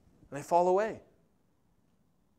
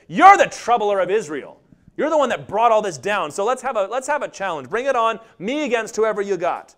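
bold accusation. Retold or imitated. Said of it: "no, he says".

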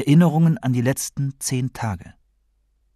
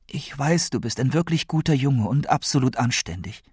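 lightly voiced grandmother, higher and pleading; earnest grandmother; 5 semitones higher than usual. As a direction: explain gently but urgently as a worried grandmother.

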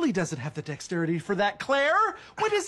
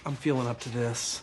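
hushed, voiceless confession; real whispered reluctance; 8 semitones lower, 6 dB quieter than usual. Real, not acted. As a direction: whisper it so nobody else hears. Confiding something painful.

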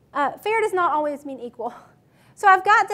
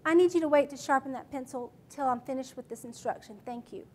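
matter-of-fact; 3 semitones lower, 6 dB quieter than usual. Shown as a demonstration. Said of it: "Matter of fact".

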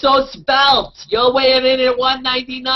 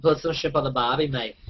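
a lightly put-on Irish accent, barely moved; bad Irish accent; 10 semitones lower, 8 dB quieter than usual. Teasing the guest with a bad Irish accent. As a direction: mangle the line in a weak Irish lilt. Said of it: "that's like Irish".

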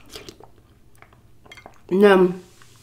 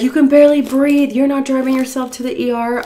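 high, raised protesting voice; alarmed husband; 8 semitones higher, 4 dB louder than usual. Retold or imitated. Husband forbidding wife to drive, alarmed protest. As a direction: imitate a worried husband putting his foot down. Voicing husband arguing about driving.

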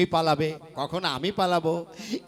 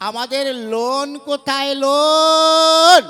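long drawn-out shouted লোন, higher; shouting; 5 semitones higher, 12 dB louder, slower than usual. Acted. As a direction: bellow লোন as long as you can. Shouting at deaf woman. (বধির মহিলাকে টেনে টেনে চিৎকার)

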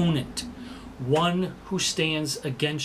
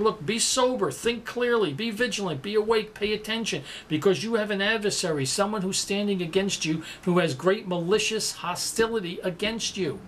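raised, urgent plea to stay alert; urgent divine warning; 5 semitones higher than usual. Acted. Preacher voicing God urging the flock, urgent and raised. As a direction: lift it high like God calling out a warning.

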